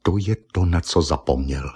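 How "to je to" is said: usual speaking voice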